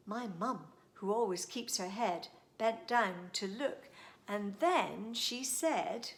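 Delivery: put-on lively, singsong reading of a rhyme for kids; storytime poem reading. A narrator's reading. Host reads a funny poem to young listeners, lively and singsong. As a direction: read it out like a bedtime poem to children.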